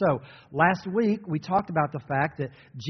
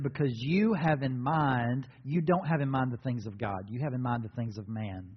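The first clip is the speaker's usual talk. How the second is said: gentle correction; 3 semitones lower than usual. Shown as a demonstration. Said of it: "And this is how he said it".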